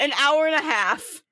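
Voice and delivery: laughing through "An hour and a half"; laughing tease. Real, not acted. Teasing girlfriend again, laughing. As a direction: repeat it, giggling. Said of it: "You thought three hours?".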